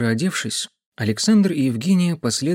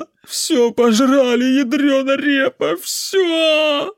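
put-on very high, loud, whiny drunken lament; tearful drunk peasant; 13 semitones higher, 4 dB louder, slower than usual. A narrator's reading. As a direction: howl over the lost potatoes, near tears. Voices drunk uncle Vitya.

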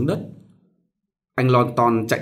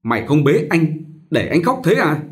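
threatening mistress; 4 semitones higher, 3 dB louder than usual. Acted. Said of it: "giơ dọa con đỏ con và hỏi".

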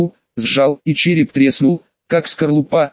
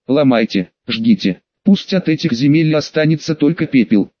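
rumbling mountain spirit. Acted. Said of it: "Его голос гремел, как обвал в горах".

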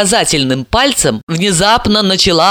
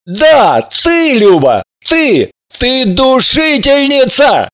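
higher slow denouncing cry; accusing; 7 semitones higher, slower than usual. Acted. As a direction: point the finger at her. Albert accusing Lyuba.

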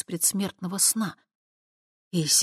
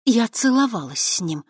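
vengeful; 6 semitones higher, 5 dB louder than usual. Acted. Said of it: "мстительно произнесла она".

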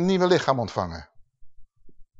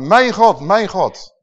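cry out; 4 dB louder, slower than usual. Acted. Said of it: "Hij schreeuwt tot zijn vader".

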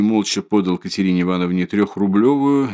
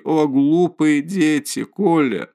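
put-on a higher, slow frightened call after the runaway children; panicked cry; 6 semitones higher, slower than usual. A narrator's reading. Mother calls after her fleeing sons in panic.

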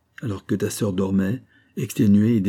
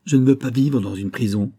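retold cry; 3 semitones higher, 4 dB louder than usual. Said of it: "et me cria".

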